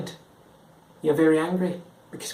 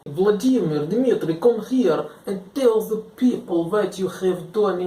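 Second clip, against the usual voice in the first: put-on higher-pitched, lilting Russian accent; 4 semitones higher than usual. Summoning Vladimir to tell the people his deeds, Russian accent.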